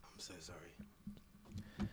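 whispered apology after choking. Real, not acted. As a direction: croak it out, still choking. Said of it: "choking over there".

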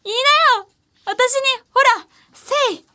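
playful demand. Pretend. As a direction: badger him into answering, half laughing. Playfully demanding cohost respond.

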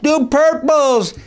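high, stretched-out concert holler; imitated fan yelling. Fan pestering the band for a song, imitated yell. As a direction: call out a request, drawing each word out. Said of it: "some guy kept yelling up".

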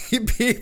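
quick mimicked honking; car horn beep. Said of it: "somebody beeped the horn".

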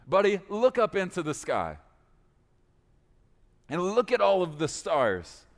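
God calling his pal to look up; God pointing Abram to the stars; buddy God. Acted. God takes Abram outside to stargaze.

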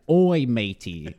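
slow, drawn-out Australian "Oi, matey"; a light Aussie "Oi, matey" read off the card; Australian accent. Shown as a demonstration. Reading the card's Australian quote to friends.

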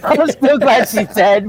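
slow, each word drawn out through a laugh; drawn-out, laughing emphasis; slow laughing repeat. Real, not acted. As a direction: lean into it, amused. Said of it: "repeat with emphasis".

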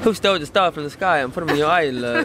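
imitated British accent; British accent attempt. Shown as a demonstration. Copying the fluent take, attempted British accent. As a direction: have another stab at sounding British. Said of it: "her accent is on a different level to yours".

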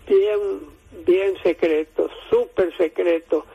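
talking too far from the phone; phone held away. Real, not acted. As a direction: voice fading from the phone. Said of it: "acércate al teléfono que se está".

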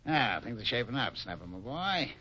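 usual speaking voice

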